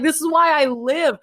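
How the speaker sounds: mock-ecstatic rapture, laughing; gushing. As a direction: rave like it's your reason to live. Gushing about moving story.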